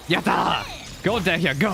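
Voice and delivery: excited cheer for Dehya. Real, not acted. Gamer cheering on Dehya in the fight, excited.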